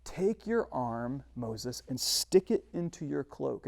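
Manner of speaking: steady, unhurried command; God instructing Moses, slow and quiet; calm God. Acted. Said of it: "And God says".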